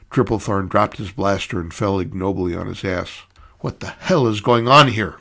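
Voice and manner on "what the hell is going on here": a touch of an angry demand in "What the hell is going on here?"; understated growled demand; mild growl. Acted. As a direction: challenge the room with mild menace. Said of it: "growled the woman".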